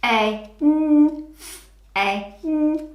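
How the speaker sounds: F-A-N sounded out letter by letter; sounding out words. Shown as a demonstration. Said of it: "real word or nonsense".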